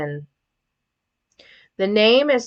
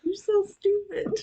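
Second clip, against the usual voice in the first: laughing; 12 semitones higher, 7 dB quieter than usual. Real, not acted. Laughing at dad.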